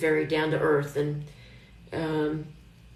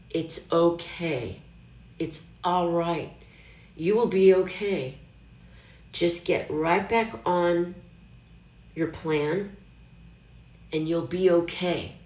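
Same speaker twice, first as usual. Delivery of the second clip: gentle self-talk. Retold or imitated. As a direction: talk yourself down gently and slowly. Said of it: "And you tell yourself".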